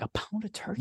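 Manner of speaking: high, disbelieving repeat of "A pound of turkey?" with "pound" lifted high and soft; incredulous mock echo. Mocking a customer's order to a friend, in high incredulous disbelief.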